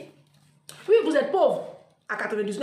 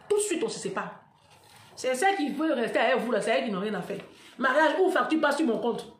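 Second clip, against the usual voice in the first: usual speaking voice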